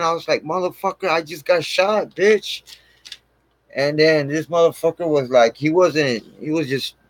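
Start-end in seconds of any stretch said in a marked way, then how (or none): 0.4-2.8 retold yell. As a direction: imitate yelling out in protest without full volume. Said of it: "I fucking yelled".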